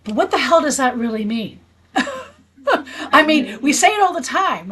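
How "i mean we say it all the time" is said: laughing. Real, not acted. Laughing at the big question.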